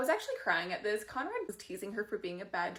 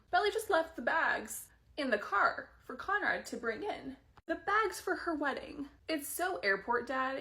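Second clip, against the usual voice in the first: giggly gush; 6 semitones higher, 4 dB louder, slower than usual. Real, not acted. Gushing delightedly over the scene.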